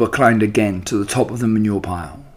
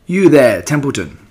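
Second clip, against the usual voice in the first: calling out; 4 semitones higher, 5 dB louder than usual. Acted. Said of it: "he called".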